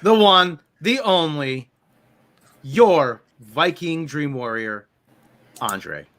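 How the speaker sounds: building hype introduction; announcer intro. Pretend. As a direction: present him like a champion entering. Grand introduction of host.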